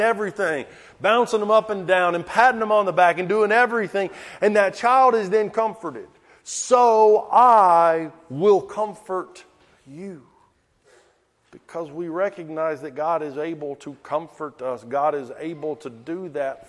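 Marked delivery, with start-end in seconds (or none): 6.5-10.2 slow, gentle reassurance with I leaned on; tender promise. Acted. Preacher repeating God's promise to his congregation, slow and tender. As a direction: savour each word of comfort.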